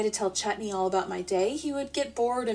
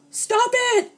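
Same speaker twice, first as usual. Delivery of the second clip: loud high snap; husband shouting at the pooping dog; 7 dB louder than usual. Acted. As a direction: yell at the dog. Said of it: "Ozzy shouts".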